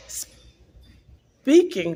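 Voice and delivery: very slow, drawn out words; slow solemn. Retold or imitated. Telling the officer a message, slow and solemn. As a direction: let each word land slowly.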